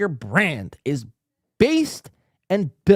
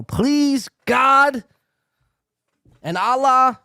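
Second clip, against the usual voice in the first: mock pleading; 8 semitones higher, 4 dB louder, much slower than usual. Real, not acted. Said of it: "Don't come for my YouTube channel".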